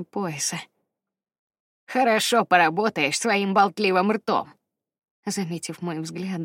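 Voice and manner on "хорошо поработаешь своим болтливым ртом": lewd. Acted. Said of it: "добавил он скабрёзно".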